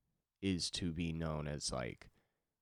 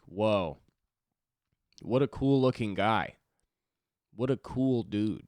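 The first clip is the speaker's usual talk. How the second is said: higher, louder gushing over someone; mock awed admiration; 5 semitones higher, 8 dB louder than usual. Onlooker gawking at an opera singer in a restaurant, mock awed admiration. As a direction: gush like a starstruck onlooker.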